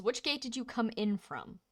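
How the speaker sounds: curt impatient guard; clipped like they're wasting his time. Acted. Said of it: "clipped, these idiots are wasting my time".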